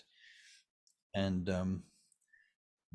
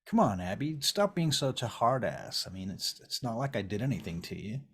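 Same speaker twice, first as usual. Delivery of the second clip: wheedling, protesting plea; pleading ex; 2 semitones higher than usual. Acted. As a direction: argue your way back into their good graces. Game master voices pleading ex-boyfriend Vern.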